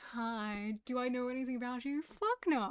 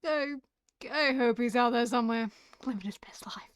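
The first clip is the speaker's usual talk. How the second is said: mock tearful; 3 semitones higher, 6 dB louder than usual. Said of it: "it's emotional".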